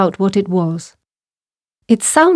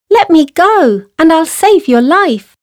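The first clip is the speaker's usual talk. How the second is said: very high insistent mouse plea; little mouse; 9 semitones higher, 4 dB louder than usual. A narrator's reading. Mouse pleading with lion, high insistent voice. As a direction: plead as a tiny mouse, pitched way up. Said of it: "said the mouse".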